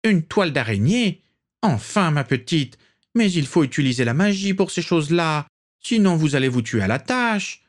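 put-on imperious old aristocrat, a touch theatrical; haughty old matriarch. A narrator's reading. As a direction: look down on the young bride. Prisca voice continues.

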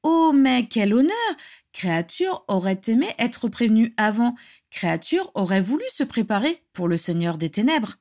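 a grovelling house-elf greeting the Dark Lord; servile house-elf voice. Acted.

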